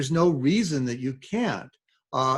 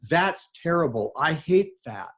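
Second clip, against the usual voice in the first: mock dismay; 4 semitones higher than usual. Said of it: "they've replied".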